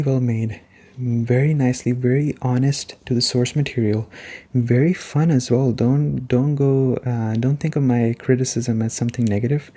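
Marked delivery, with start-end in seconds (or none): none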